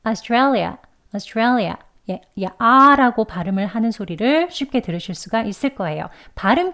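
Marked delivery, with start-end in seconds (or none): 0.1-1.8 Australia at natural speed; Australia said fluently as natives do; quick native Australia; native-style demo. Shown as a demonstration. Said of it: "원어민들이 발음을 하면".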